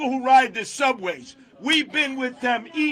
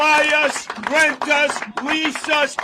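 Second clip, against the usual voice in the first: loud, building defiant shout; rising to a roar; roaring rallying speech; 3 semitones higher, 5 dB louder than usual. Real, not acted.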